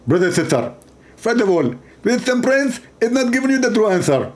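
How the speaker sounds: a light parody of a preacher's lecturing voice; half-hearted preacher impression; mock Zakir Naik. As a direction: play a pompous debater, lightly. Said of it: "He speak like this".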